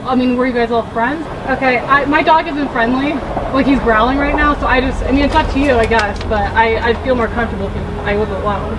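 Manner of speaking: lisping from dental trays; nervous talk with a lisp. Real, not acted. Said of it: "Sorry, the lisp".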